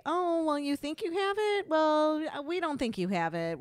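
high, dismissive mock voice; mocking hospital staff. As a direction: brush off the patient. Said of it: "They say".

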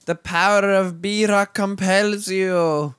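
slow, booming mock exorcist intonation; hammed-up exorcism line. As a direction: intone it like a priest casting out a demon. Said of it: "That was terrible".

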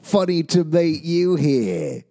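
hammed-up villain greeting, high and loud; mock bad guy voice, drawn out and loud; bad guy accent. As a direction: sneer it like a cartoon villain. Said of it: "That was like my bad guy accent".

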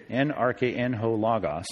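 slow, soft, low sounding-out of Greek; slow transliteration. Shown as a demonstration. Teacher helping class transliterate, slow low Greek reading. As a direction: spell it out by ear, unhurried. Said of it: "if you wanna transliterate it".

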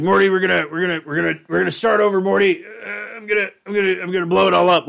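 a manic grandpa rambling toward a bomb; Rick impression. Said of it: "he's just like".

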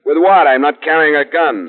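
high, loud, exasperated retort; indignant. Acted. Detective answering police lieutenant's accusation, indignant. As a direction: throw the accusation back.

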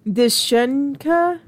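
"Dishenka" drawn out slowly, first n dropped; tentative mispronunciation. Shown as a demonstration. Host guesses at the fairy name, slow "Dishenka" with SHEN. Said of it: "probably mispronounce this".

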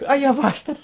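burned man in salt water, mock agony; mock pained groan. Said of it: "just going".

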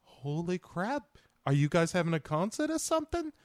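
high, swooping bro impression; clueless bro ready to party; mock movie-star bro voice; Mark Wahlberg. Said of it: "he's like".

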